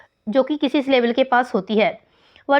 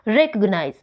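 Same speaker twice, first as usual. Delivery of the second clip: रिकॉग्नाइज as "REK-ug-nize", dropping lower to the end; first-syllable stress; 4 semitones lower than usual. Shown as a demonstration. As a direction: lean on REK in रिकॉग्नाइज, rest lighter. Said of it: "first syllable पर लगी है". (रिकॉग्नाइज, पहले syllable पर ज़ोर देकर)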